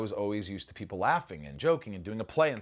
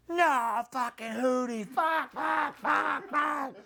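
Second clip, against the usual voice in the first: far higher, louder frantic curses; reenacted panicked yelling; 4 dB louder, much slower than usual. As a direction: scream the curses like the scene's panic. Reenacting his panicked scream on film.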